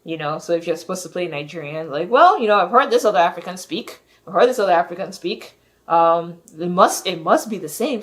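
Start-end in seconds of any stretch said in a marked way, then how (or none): 2.1-8.0 louder, hurried mock excuse; mock justification. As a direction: imitate an actor rattling off a lazy excuse. Mimics actor justifying a lazy accent.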